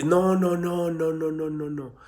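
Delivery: long string of noes, fading out; dismissive no-no. Real, not acted. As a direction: cut it off and let the noes trail away. Cuts off the imitated testimony.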